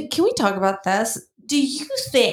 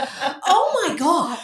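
mock cry; 5 semitones higher, much slower than usual. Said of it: "then you're like".

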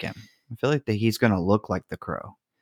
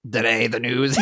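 Stephen Hawking voice. Retold or imitated. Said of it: "in Stephen Hawking voice".

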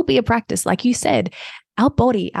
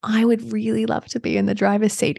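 fatherly, gentle reassurance; a hint of a warm father's voice; paternal. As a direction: talk to it like a kind dad. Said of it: "this really paternal".

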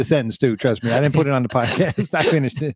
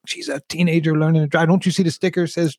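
retold angry rebuke; 6 semitones higher than usual. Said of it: "I was so mad".

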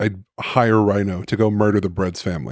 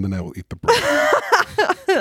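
menacing threat; much slower than usual. Acted. Dramatic villain threat.

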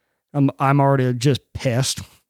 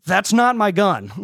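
slow, higher-pitched indignant complaint; retold indignation; 5 semitones higher than usual. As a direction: re-enact confronting the store staff, drawn out. Retold angry confrontation at store.

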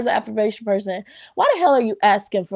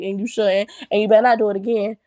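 mock scolding; faster than usual. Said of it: "No, I'm just kidding".

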